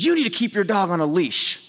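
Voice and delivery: yelling neighbor. Retold or imitated. Neighbor telling off the dog owner, mock yelling. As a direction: scold like an annoyed neighbor, lightly acted. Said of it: "yelling at me".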